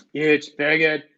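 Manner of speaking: a weak attempt at Trump bragging; Donald Trump impression. Streamer tries a Trump impression for chat, lightly voiced. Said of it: "I cannot do a Donald Trump impression".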